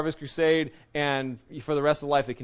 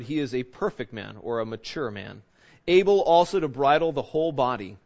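measured, declaiming Bible reading; formal scripture reading to a congregation. Acted. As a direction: read the passage with weight. Reads scripture aloud.

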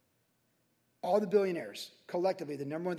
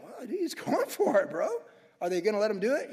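a bit higher, laughing mock amazement; amazed bro onlooker; 3 semitones higher, 4 dB louder than usual. Onlooker to friend, a hint of stunned amazement. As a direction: play the stunned bro watching. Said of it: "Can you imagine people like".

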